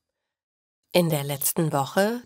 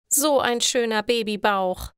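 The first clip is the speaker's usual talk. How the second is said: loud, higher gushing call; 4 semitones higher than usual. Acted. Chrissy calls out to Eva about her belly, loud and gushing. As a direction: gush over the belly at full voice. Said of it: "ruft sie laut".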